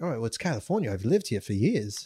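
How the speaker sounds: soft put-on British accent; fake British accent. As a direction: explain yourself softly in a mock British accent. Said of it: "I still have got the accent".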